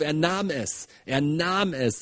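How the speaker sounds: NAHM held long with a falling tune; stress on NAHM. Shown as a demonstration. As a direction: put the emphasis on NAHM. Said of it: "da ist eine Betonung drauf".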